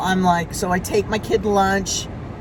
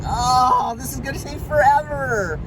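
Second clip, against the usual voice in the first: mock moan, pitched up on forever; exasperated complaint; 3 semitones higher than usual. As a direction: groan it out at the endless wait. Retelling her impatience at the salon.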